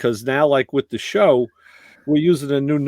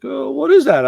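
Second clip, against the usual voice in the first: quoting buddy; 9 semitones higher, 3 dB louder than usual. Retold or imitated. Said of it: "He's like".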